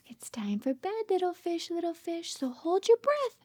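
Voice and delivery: hushed, singsong lullaby lines; bedtime story reading. Acted. Mother reads a bedtime book to her baby, hushed and singsong. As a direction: lull the baby toward sleep.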